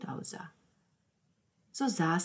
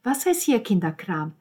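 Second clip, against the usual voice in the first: loud, raised indignant retort; worked up; 4 semitones higher, 8 dB louder than usual. A narrator's reading. Roberta objects to the brush-off, worked up. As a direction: throw the word back, outraged. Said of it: "regte Roberta sich auf".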